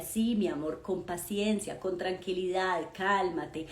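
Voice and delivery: put-on calm the child gently; soothing mother. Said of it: "Y yo le decía".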